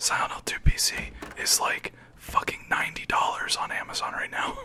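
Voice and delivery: whispered. Chatting during a game stream, whispering.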